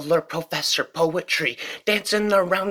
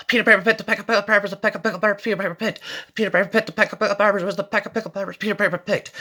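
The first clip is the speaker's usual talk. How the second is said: fast tongue twister; 3 semitones higher, much faster than usual. Shown as a demonstration. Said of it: "murdering rhymes at infinite speed".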